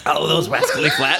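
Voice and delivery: "Wascally" with W for R, through laughter; laughing Elmer Fudd lisp. Pretend. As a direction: say "those Wascally Flats" with a W for the R, laughing. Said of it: "Wascally Flats".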